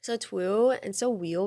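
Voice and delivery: put-on slow, lisped baby voice; slow mock baby-talk lisp. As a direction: say it cutely.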